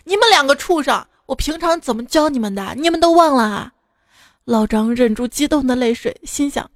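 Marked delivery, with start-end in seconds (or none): 0.0-3.7 higher, sharp angry rebuke; old wife cursing her two greedy sons; scolding angrily. Acted. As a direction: berate the sons like a furious mother. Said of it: "大骂两个儿子".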